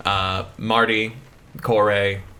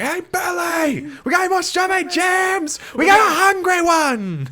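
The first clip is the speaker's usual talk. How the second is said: customer service voice; 4 dB louder than usual. Retold or imitated. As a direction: holler into the kitchen, pitched way up. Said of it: "After the customer service voice comes off".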